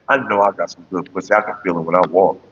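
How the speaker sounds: low, husky mock woman's boast; sultry woman. Repeating the woman's boast, low and sultry. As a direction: purr it smugly, low. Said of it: "hearing a fine ass bitch say that".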